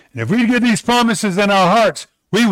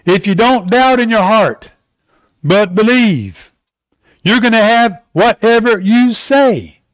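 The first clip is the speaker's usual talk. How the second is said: scripture reading. Shown as a demonstration. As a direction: read it like holy writ. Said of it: "Mark eleven twenty-three says this".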